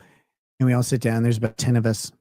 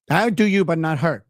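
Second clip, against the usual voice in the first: higher imitated Colombian accent; hint of a Colombian accent; 4 semitones higher than usual. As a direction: lightly mimic a Colombian woman, pitched up. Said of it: "her accent. She sounded like".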